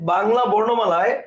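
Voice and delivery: "Bangla বর্ণমালায়" repeated slowly for note-takers; slow dictation. Shown as a demonstration. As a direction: say "Bangla বর্ণমালায়" at writing speed, ending on a rise. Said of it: "লিখো". ("বাংলা বর্ণমালায়" লেখার গতিতে ধীরে)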